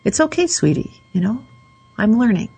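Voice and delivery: tender reassurance to yourself; gentle self-talk. Shown as a demonstration. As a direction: talk to yourself like a loved child. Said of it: "speak to yourself that way".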